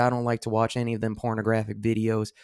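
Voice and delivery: a hint of a Southern accent, playing the prude. Mocking Bible thumpers back home in a light Southern accent. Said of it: "I'm gonna keep going".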